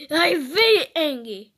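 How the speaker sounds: hammed-up cross declaration; pretend anger. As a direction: stamp out the words in mock anger.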